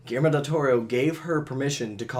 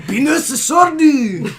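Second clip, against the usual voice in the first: much higher, slow, through laughter; laughing; 11 semitones higher, 9 dB louder, much slower than usual. Real, not acted. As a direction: squeal it out mid-laugh. Cracking up over sword joke.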